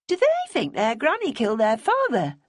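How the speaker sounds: a touch of stark demand; blunt, pointed question; demanded starkly. A narrator's reading. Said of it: "Bonnie demanded starkly".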